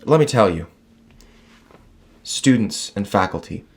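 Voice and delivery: grand commencement speech delivery; graduation speech. Pretend. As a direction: address the graduates with pomp. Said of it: "You sound like you're giving a graduation speech".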